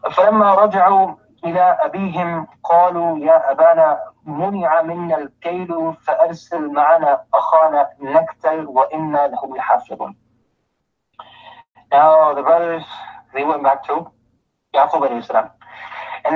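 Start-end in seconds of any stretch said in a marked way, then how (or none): 0.0-10.1 rapid, even recitation of the verse; fast Arabic recital; quick Quran recitation. Acted. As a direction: run through the Arabic verse briskly.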